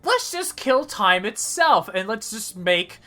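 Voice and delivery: high silly buddy voice. Acted.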